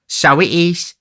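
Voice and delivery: high oafish voice; high-pitched tipsy character; tipsy agreeing youth. A narrator's reading. Noah acquiesces.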